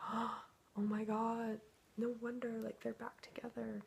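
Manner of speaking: reliving the moment she saw the post; retold shock. Woman reading ex's post about her twin, shocked disbelief.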